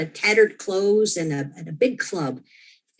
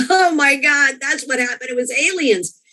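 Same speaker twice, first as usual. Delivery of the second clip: laughing realization; 7 semitones higher than usual. Retold or imitated. Realizes it was aliens.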